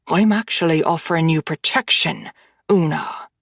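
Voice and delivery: mild growl. Acted. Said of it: "he growls".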